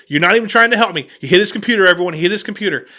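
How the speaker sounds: retold loud, quick accusation; aggressive. Customer filming a hotel employee, aggressively accusing. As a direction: accuse him fast, playing to an audience. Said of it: "he's kind of being pretty aggressive".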